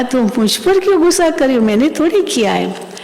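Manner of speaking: affectionate mock reproach that settles down at the end; loving, retold. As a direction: imitate a mother figure lovingly pleading innocence. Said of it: "इतना प्यार से मम्मा ने कहा".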